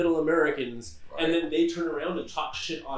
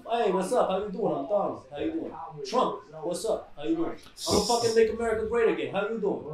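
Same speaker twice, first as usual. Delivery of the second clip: lightly voiced Brooklyn tough-guy greeting; hint of a wiseguy putting on swagger; Donald Trump. Host mocking him selling a New York accent, lightly put-on Brooklyn wiseguy. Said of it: "But he talks like this".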